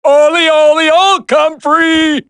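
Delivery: sing-song taunt. Acted. Villain calling out to the hiding soldiers, taunting. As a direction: call it out like a nasty game of hide and seek.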